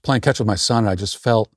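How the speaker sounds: hesitant mock complaint to Granddad; whining grandson. Grown grandson confiding to his granddad about playing catch, mock-hesitant whining. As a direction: stammer it out weakly, trailing into unfinished thoughts. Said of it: "you went to him and said".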